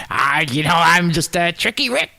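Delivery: high, giggly mock boast; Tricky Rick. Host plays the schemer introducing himself, giggly and hammed-up.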